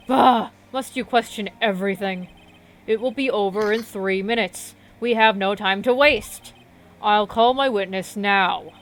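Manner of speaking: emphatic, loud opening bah; lightly voiced impatient prosecutor. Prosecutor rebukes the judge for questioning everything, impatient. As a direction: brush off the question with impatient force. Game voice of Von Karma.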